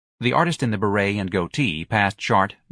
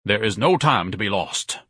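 mildly stern, level pronouncement; a touch of grave authority. Acted. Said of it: "Ignatius said sternly".

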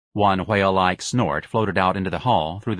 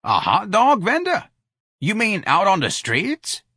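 higher, slow astonished question; shocked disbelief; 12 semitones higher, slower than usual. A narrator's reading. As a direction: gasp it out in disbelief. Shocked at the news.

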